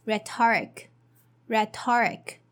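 "rhetoric" said with stress on the first syllable, re-to-rik; whole word rhetoric. Shown as a demonstration. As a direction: model "rhetoric" clearly for learners. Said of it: "combining all together".

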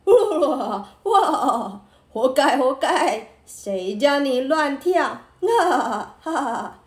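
mocking laughter. A narrator's reading. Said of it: "忍不住笑了起来".

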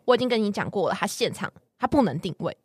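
curt, clipped patience running out; getting annoyed. Shown as a demonstration. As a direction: repeat it firmly, already irritated. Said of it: "但第二次我就会开始不爽".

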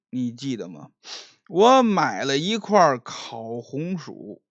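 stutter, then twist the knife; drunk young master backpedaling. Acted. Drunk Liu taunting Qian Jin about their past, stammering.

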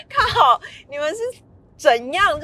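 exasperated. Retold or imitated. Reacting to being discussed.

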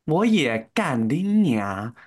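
mocking echo. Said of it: "开始疯狂模仿他".

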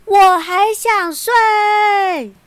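high, loud, slow whiny yell. Acted. Angry prince yelling at his father to let him sleep, slow high yell. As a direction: bellow it out, refusing to get up. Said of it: "他大吼".

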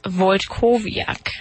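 "Wojtkowiak" with a voyt start and clear v before yak; original name pronunciation. Shown as a demonstration. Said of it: "the real pronunciation of my name is".

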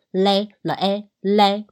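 嘞 sounded out with a full 诶 vowel. Shown as a demonstration. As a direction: break "嘞" into L plus 诶, then blend. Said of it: "所以读的是正常音". (拆读“嘞”，母音读完整的“诶”)

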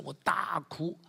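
hushed, breathy whisper of the memory; 轻声耳语. Real, not acted. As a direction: let it fall to a whisper.

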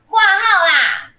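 loud, high and slow insistent shout; drawn-out shout. A narrator's reading. Man at the clinic door shouting again, slow and loud.

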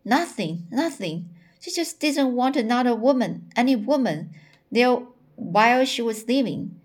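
expressive audiobook-style reading; story reading aloud. A narrator's reading. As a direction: read the character's confession aloud with lively emphasis.

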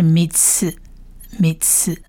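"米刺" in two separate syllables; blended syllables. Shown as a demonstration. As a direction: sound out "米刺", then repeat it softly. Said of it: "所以是米刺". (拼读示范“米刺”)

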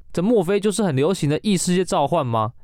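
这莫非 read out stiff and flat like bad acting; deadpan line reading of 这莫非就是很流行的异世界召唤吗; flat stilted reading. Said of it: "我以为你说一个很棒读的方式".

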